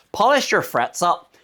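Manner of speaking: "Polish your frets up" with a light Irish lilt, rising at the end; a playful hint of an Irish accent on "Polish your frets up". Shown as a demonstration. Guitar vlogger joking to viewers, putting on a light Irish accent. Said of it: "You can say it in an Irish accent".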